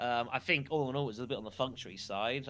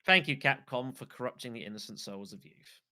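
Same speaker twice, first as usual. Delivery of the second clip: sarcastic. Acted. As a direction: say it with heavy sarcasm. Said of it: "Sar-, end sarcasm".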